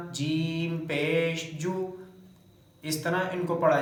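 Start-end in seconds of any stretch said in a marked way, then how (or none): 0.1-1.7 slow "जीम पेश", then a short "जू"; correct spelling-out. Shown as a demonstration. Teacher showing jeem the same way, short smooth "जू". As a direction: spell it out slowly and end on a brief, smooth "जू". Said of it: "जीम भी इसी तरह".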